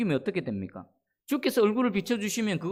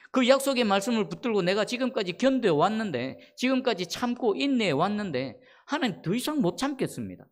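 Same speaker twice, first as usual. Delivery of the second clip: mildly acted desperate complaint, slightly raised voice; David's anguished protest; 3 semitones higher than usual. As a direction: protest to God at the end of patience. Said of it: "다윗의 심정을 헤아려 보십시오".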